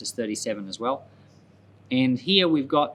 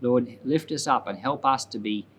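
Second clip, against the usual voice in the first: closing prayer. Real, not acted. Teacher closing the Bible lesson prays for the listeners, sincere prayer. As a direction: pray it simply and sincerely, head bowed.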